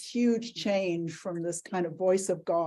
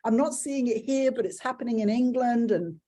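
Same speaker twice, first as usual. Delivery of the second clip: exasperated; 6 semitones higher, 5 dB louder than usual. Retold or imitated. Retelling her own past frustration.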